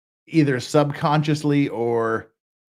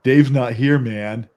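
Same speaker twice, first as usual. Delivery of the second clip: lightly voiced stoner drawl; a hint of a laid-back stoner; Cheech voice; 4 semitones lower, slower than usual. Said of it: "Cheech and Chong me".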